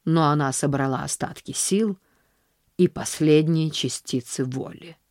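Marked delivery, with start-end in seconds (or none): none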